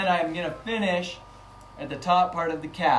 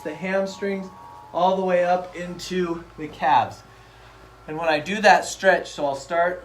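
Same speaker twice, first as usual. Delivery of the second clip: voice shaking; 3 semitones higher, 4 dB louder than usual. Real, not acted. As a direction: voice rattled by vibration. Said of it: "I don't know if you can hear my voice shaking".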